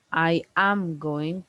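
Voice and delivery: slow, with emphasis on "am"; stress on AM. Shown as a demonstration. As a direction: draw out the phrase, weighting "am". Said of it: "whenever we put emphasis to the auxiliaries".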